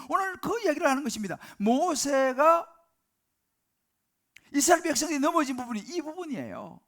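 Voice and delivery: loud, high, ringing preacher's call; fervent preaching. Acted. Pastor urging the congregation, loud fervent preaching. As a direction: drive the point home to the congregation.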